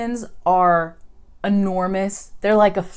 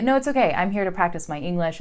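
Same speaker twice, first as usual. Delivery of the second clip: polite refusal; faster than usual. Shown as a demonstration. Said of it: "stick with English and say".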